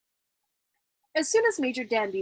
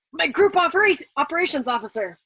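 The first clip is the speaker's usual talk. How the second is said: nervous; 6 semitones higher, 7 dB louder than usual. A narrator's reading. Colonel stammering to general.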